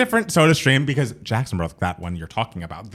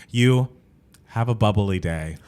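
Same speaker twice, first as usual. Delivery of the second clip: slow, reluctant forced cheer, a little lower; pained, forced cheer; 3 semitones lower, slower than usual. Retold or imitated. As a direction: push the line out as if through gritted teeth. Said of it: "it was pained".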